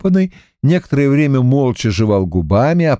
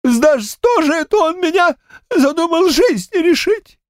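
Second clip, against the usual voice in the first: put-on high, helpless old man's voice, much higher; lost, bewildered old man. A narrator's reading. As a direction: ask it as a dazed grandad who can't believe it. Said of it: "потерянно спросил".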